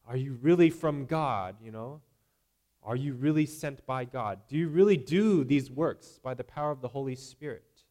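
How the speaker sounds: loud, demanding mock challenge; a crowd heckling the disciples, loud and demanding; challenging crowd. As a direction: press them like a doubting crowd. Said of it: "they're testing them".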